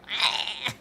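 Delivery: put-on wordless croak as an old man; imitated old-man noise. Artist mimics the old man's face she sees, croaking noise. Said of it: "it looks like an old man's face going".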